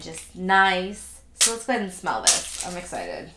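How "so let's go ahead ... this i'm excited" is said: talking through a blocked nose; nose stuffed up from allergies; stuffy nose. Real, not acted. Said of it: "Sorry if I sound stuffy".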